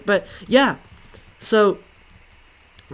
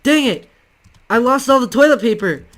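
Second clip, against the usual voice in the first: a higher, louder mock curse from the next stall; cussing loudly; 4 semitones higher, 4 dB louder than usual. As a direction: imitate the neighbour swearing loudly, half-hammed. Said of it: "cuss that loudly".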